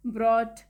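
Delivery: ब्रॉट as "brawt", ending straight on t; no g or h sound in ब्रॉट; silent GH. Shown as a demonstration. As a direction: go from vowel to t in ब्रॉट. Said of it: "जी H silent है".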